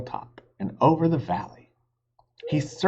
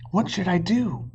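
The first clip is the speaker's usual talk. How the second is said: put-on panicked boy; 8 semitones higher than usual. Jack panicking.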